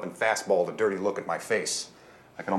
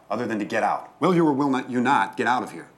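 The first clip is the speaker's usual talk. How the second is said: rising, louder indignant order; indignant demand; 3 semitones higher, 4 dB louder than usual. Acted. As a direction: push her out the door, louder. Major domo demanding she leave.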